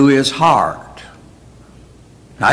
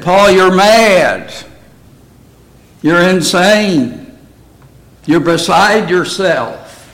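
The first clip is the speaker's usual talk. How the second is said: accusing Roman governor, louder, higher and drawn out; Festus; 5 semitones higher, 3 dB louder than usual. Acted. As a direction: declare him mad, slowly and emphatically. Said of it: "what did Festus, the Roman governor, say about Paul?".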